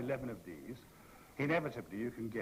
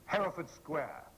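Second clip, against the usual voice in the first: imperious; slower than usual. Retold or imitated. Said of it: "as imperiously as I could".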